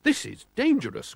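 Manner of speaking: high alarmed cry; a lightly voiced cry of alarm; old driver warning of the danger. A narrator's reading. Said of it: "cried Mister Oldcastle".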